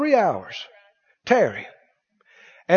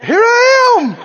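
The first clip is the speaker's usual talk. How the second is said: much higher, loud call; God calling back; 13 semitones higher, 6 dB louder, slower than usual. Retold or imitated. God answering the man's prayer, much higher call. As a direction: sing out that you're already here. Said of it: "He's going".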